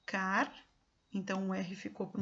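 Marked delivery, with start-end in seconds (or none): 0.1-0.5 CAR as a separate first syllable; the lone syllable Car, set apart; syllable split. Shown as a demonstration. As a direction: sound out Car alone, cut off before the rest of the word. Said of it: "Foi o que eu fiz aqui".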